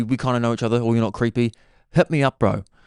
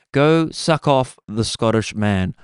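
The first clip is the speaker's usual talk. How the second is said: very slow, drawn-out command; mock coded order; slower than usual. Caller gives secret code order, slow and drawn out. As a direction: stretch each word like a secret instruction.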